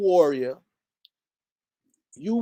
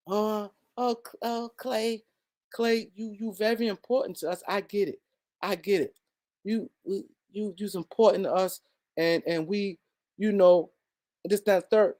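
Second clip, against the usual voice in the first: mock timid executive; 3 dB quieter than usual. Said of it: "put their skirt on and dance around".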